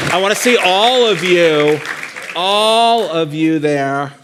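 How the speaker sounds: loud, high, playful rallying call. Real, not acted. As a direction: call out big to the whole crowd, drawing the words out. Playfully calling out to the audience.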